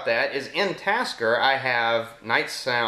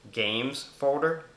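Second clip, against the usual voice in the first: slow voice command; 3 semitones higher, much slower than usual. Real, not acted. Speaking a command to phone.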